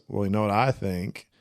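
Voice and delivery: slow, lightly voiced Southern drawl, dragging out Alabama; a gentle hint of Forrest, unhurried and deliberate; imitating Forrest Gump. Podcaster quotes Forrest's bus line to friends, slow light Southern impression. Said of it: "I love the way he says it".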